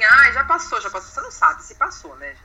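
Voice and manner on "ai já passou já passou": put-on soothing a child. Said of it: "a criança cai, bate a cabeça e fala assim".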